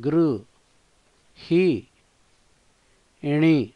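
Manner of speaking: గృహిణి split into separate syllables with pauses. Shown as a demonstration. Teacher spelling out గృహిణి for learners, one syllable at a time. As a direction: break గృహిణి into గృ, హి, ఇణి. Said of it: "గృహిణి".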